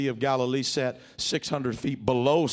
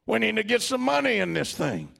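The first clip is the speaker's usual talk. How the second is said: blustering Peter; 3 semitones higher than usual. Retold or imitated. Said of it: "big burly chest out and saying".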